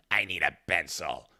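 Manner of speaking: slow odd voice; weird meth voice. Retold or imitated. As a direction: drag the words out dreamily. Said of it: "maybe I exaggerated her voice".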